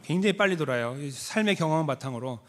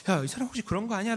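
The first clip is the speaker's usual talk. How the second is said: bystanders whispering; 5 semitones higher, 5 dB quieter than usual. Retold or imitated. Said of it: "라고 물었겠죠".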